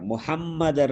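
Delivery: முஹம்மதர் said mu-ham-ma-dar with both m sounds; ham-ma clearly doubled in முஹம்மதர்; correct double m. Shown as a demonstration. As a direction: model முஹம்மதர் with a held double m. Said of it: "ரெண்டு இம்மன மாவன வர வேண்டும்".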